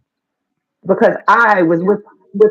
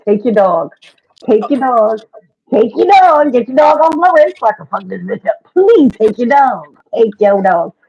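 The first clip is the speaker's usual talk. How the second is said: frantic pleading; 3 dB louder than usual. Retold or imitated. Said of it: "I'm like".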